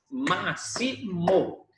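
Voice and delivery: Máximo in three slow, separate beats; very slow Máximo with a gap after each syllable. Shown as a demonstration. Teacher showing a three-syllable word, Máximo broken slowly into syllables.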